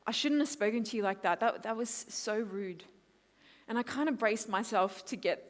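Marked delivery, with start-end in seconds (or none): 0.1-2.8 lower, subdued sorry; acted-out quiet remorse; contrite apology. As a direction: apologize gently to a parent, owning it. Acted apology to her dad.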